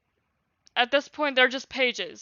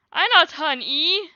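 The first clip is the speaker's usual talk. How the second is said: higher, slow little squeal; 5 semitones higher, 6 dB louder, slower than usual. Acted. Baby Storm squealing to his mother, higher pitched. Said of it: "squealed Storm".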